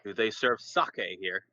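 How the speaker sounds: low, slow, with a little snarl; half-snarled request; snarling tiefling-like grunt. Acted. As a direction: curl the lip and growl it out slowly. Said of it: "he'd give him, like, a little snarl and says".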